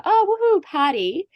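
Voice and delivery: high, loud mock whoop; playful imitated woohoo; imitating a party cheer. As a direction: squeal it like a teasing friend. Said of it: "hearing you always say".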